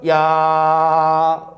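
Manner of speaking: "야"를 아주 길게 늘여 끝이 "아"로 남게; "야아아" 하고 높낮이 없이 길게 끌기. Shown as a demonstration. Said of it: "어떻게 발음하겠어? 처음에는 야로 시작을". (길게 늘인 "야" 발음 시범)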